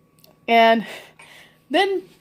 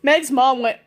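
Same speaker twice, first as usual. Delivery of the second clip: ordinary delivery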